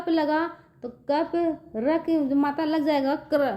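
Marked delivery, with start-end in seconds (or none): 3.2-3.5 "क्र" as one firm syllable; "क्र" with क and आधा र fused; forceful conjunct. Shown as a demonstration. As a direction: push the half r out straight after k in "क्र". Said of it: "जोर से पढ़ेंगे कि आधा र".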